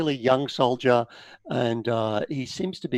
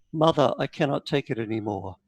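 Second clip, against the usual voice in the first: crying son; 4 semitones lower, 5 dB quieter than usual. Acted. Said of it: "screaming and crying".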